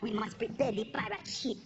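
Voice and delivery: low, grand mock-heroic pirate speech; hammed-up pirate captain rallying the crew; pompous pirate captain. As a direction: declare it like a proud pirate chief rallying his crew.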